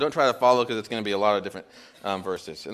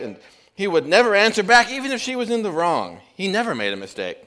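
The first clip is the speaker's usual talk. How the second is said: gushing cabbie; 4 semitones higher than usual. Retold or imitated. Joke, cabbie keeps praising.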